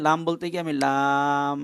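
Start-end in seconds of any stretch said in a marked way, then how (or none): 0.1-0.2 the last লাম held very long and level; long drawn-out vowel. Shown as a demonstration. Teacher sounding out lam to count its letters, long drawn-out vowel. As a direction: stretch the aa of লাম steadily into the m. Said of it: "লাম উচ্চারণ করতে গিয়ে".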